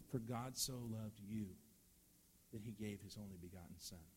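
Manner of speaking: slow and intimate, leaning on "you" in "For God so loved you"; slow personal retelling. Shown as a demonstration. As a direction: make it personal to each listener, slowly. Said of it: "He's talking about me".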